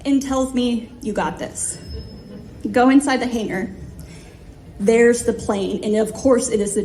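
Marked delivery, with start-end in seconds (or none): 1.0-1.8 low, soft encouragement; softly imitated pep talk; quiet reassurance. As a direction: reassure gently, voice dropped low. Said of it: "he smiles, grabs my very sweaty palm".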